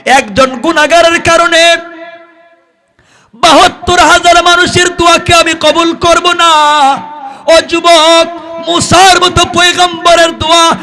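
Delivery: very high, loud chanted shout; full-force chanted scolding, pitched far up; thundering preacher's rebuke. Acted. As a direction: drive the sinner out in a ringing sermon cry. Preacher chants divine refusal and rebuke.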